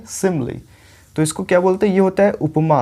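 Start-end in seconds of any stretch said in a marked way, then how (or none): 0.1-0.6 सिमिली as SIM-lee, falling at the end; first-syllable stress. Shown as a demonstration. Teacher models the first figure's name, सिमिली as SIM-lee. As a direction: hit SIM in सिमिली, then a light lee. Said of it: "इसको कैसे pronounce करेंगे".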